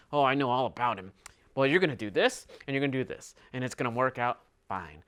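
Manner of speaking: quiet, sneering parody of a know-it-all villain; lightly voiced smug schemer, mocking her.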